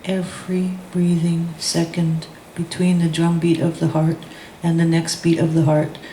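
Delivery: chanted call-and-response poem; spoken-word poet leading a crowd chant; poem performance. Acted. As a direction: lead the room through the chant. Leads audience through chanted poem.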